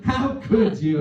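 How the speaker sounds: high-pitched reproach; exaggerated wife impression; mock sweet wife. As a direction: play the wounded, scolding wife. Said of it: "with her very sweet voice".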